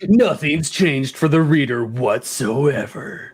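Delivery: slow ominous trailer narration; horror trailer voice. Acted. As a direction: intone it like a movie trailer. Trailer parody continues.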